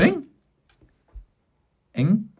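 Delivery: imitating a baffled "huh?"; puzzled little double-take, lightly acted; flustered confusion. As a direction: act out being lightly thrown, questioning upward. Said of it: "이렇게 당황한 거죠".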